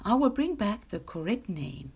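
understated, self-assured boast; lightly voiced proud lion. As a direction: boast with calm, mild pride. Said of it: "he said proudly".

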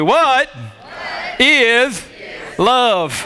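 puzzled, really asking; real question tone. Shown as a demonstration. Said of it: "Say it like you're asking a question you don't know the answer to".

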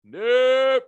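loud, high nope nope; loud laughing refusal; emphatic nope. Real, not acted. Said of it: "refusing emphatically".

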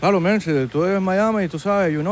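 put-on Spanglish Miami accent. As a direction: play a Miami local mixing languages. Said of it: "El acento Miami". (acento de Miami)

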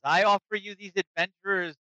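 a lightly voiced adventurer pledging allegiance; character voice. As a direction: pitch it up a bit and offer grandly. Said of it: "kinda to the dwarf and he says".

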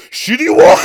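very high, shouted mock Chinese accent; South Park restaurant owner. Imitating a South Park cartoon, shouted Chinese accent. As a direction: yell it as a Chinese caricature. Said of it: "the voices from South Park".

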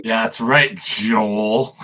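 pointed, needling reply; mean-spirited jab; being mean. Acted. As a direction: rub it in, stretching out the name. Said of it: "This is being really mean".

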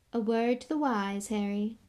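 understated fatherly advice; a touch of patronizing concern; paternal. Acted. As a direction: confide kindly, like an elder. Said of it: "said Lockhart paternally".

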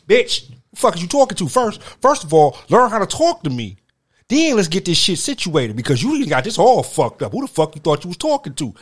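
building to a loud furious tirade, rising in anger; heated rant. Acted. Ranting at an imagined woman, building fury. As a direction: let the anger boil over.

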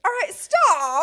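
drawn out loud stop. Real, not acted. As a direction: cut them off, laughing. Stopping gross talk.

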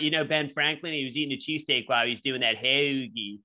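put-on Philly accent. Host riffing as a local about Ben Franklin, Philly accent. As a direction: stretch the O in "hoagie", Philly style. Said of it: "accent from where I came from".

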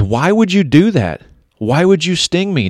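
a hint of a frightened frog; shocked frog. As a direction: play the frog pleading in disbelief as the sting hits. Frog stung, voiced in story.

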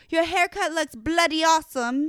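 high loud gushing compliment; excited compliment. Pretend. Groomer praising a client's haircut, high loud gushing. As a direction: gush over the haircut. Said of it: "I'm gonna be like".

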